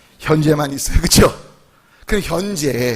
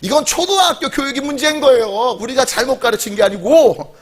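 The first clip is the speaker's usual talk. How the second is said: higher-pitched, mock-indignant teacher; angry schoolteacher; 4 semitones higher than usual. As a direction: act out a teacher shifting the blame. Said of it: "너무 화가 나서 이렇게 말했대요".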